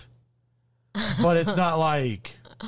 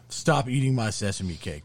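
with authority; 3 semitones lower than usual. Shown as a demonstration. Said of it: "you have to say it with authority".

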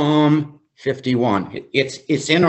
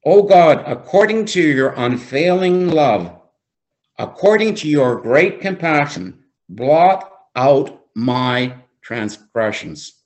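strong opening cry on "Oh God", then measured; slow right down for the last phrase; slow, emphatic reading. Real, not acted. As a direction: read the psalm with weighted key words. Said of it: "I'm gonna read it slowly".

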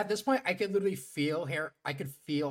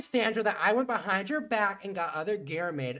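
exasperated apology; 3 semitones higher, 5 dB louder than usual. Retold or imitated. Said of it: "then she's like".

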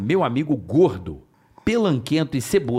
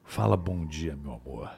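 low, soft and seductive; 9 semitones lower, 9 dB quieter than usual. Shown as a demonstration. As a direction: purr it like a late-night radio host. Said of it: "Você tem uma voz sedutora".

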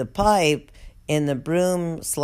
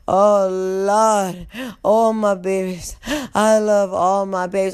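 put-on tired old guard voice; 2 semitones higher, 3 dB louder than usual. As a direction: groan it out like an exhausted guard. Impersonating tired prison guard.

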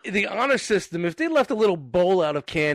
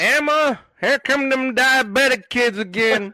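raised voice calling across the house; 5 semitones higher, 4 dB louder than usual. Pretend. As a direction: call out to someone in another room.

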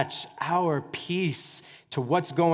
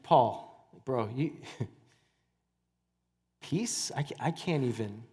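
softer, lower, mock-weary grumble; mock exasperated complaint; 5 semitones lower, 8 dB quieter than usual. Tired churchgoer complains to Paul about peace, mock weary. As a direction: sigh it out like a tired parent. Imagined exhausted listener answers Paul.

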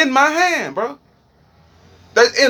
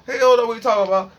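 rushed mock doubters; 3 semitones higher, much faster than usual. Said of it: "I know a lot of people like".

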